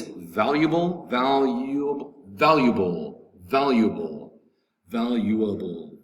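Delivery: slow pronunciation demo. Shown as a demonstration. Teacher sounds out the word slowly.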